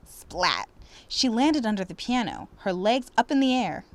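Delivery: expressive read-aloud storytelling; story narration. Acted. Teacher reading a story to students, expressive narration. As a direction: read it warmly to the class.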